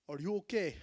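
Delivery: put-on concerned question in African-accented English; imitated African English accent. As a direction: imitate an African man checking on someone. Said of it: "the guy that speaks English".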